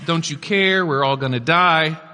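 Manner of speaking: hammed-up plea, only lightly played; mildly dramatic panic. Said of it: "a little dramatically perhaps".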